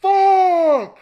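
laughing shout. Real, not acted. After scare, laughing.

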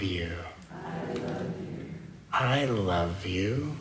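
slow, soft, lingering I love you; slow soft affirmation. Acted. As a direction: let each I love you hang in the air. Repeated loving affirmation.

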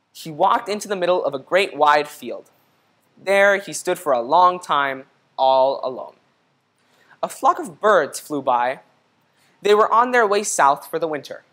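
gentle storybook read-aloud; reading to children. A narrator's reading. Teacher reading a picture book to the class, gentle read-aloud. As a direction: read it like story time for kids.

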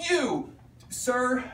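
high, loud mock declaration, drawn out; loud retold outburst. Upset student to teacher while leaving the room, loud mock outburst. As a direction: imitate an upset student's loud parting shot. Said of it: "brace your ears now".

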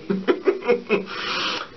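short high giggle fit; helpless laughing. Real, not acted. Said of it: "I'm not gonna stop laughing".

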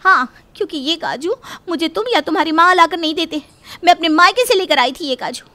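loud, sharp argument; wife arguing with her husband, loud; angry retort. Acted. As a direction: fire back at him.

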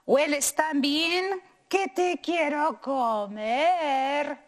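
slow, drawn-out greedy dog; slow hungry dog. Acted. Dog tempting the tortilla, slow and greedy. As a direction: savour each word like a hungry dog.

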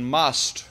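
"must" hit firmly, then a pause; stress on MUST. Real, not acted. Speaker urging socialists on the environmental fight, stress on MUST. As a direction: land hard on MUST. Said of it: "and I emphasize must".

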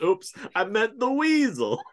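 high, slow goofy weasel voice; Pauly Shore weasel voice. Retold or imitated. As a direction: play it dopey and drawn out. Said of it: "it starts and it's like".

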